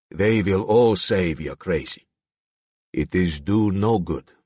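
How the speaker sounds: put-on Slavic accent, resigned and heavy; scornful Slavic accent. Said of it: "Slavic accent".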